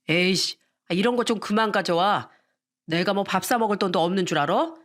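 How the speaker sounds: a lightly voiced irritated husband, scornful at the end; annoyed husband. Husband scolding his wife over side dishes, mildly irritated. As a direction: grumble at her like a spoiled big shot. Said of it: "인상을 팍 쓰면서 이렇게 말하더군요".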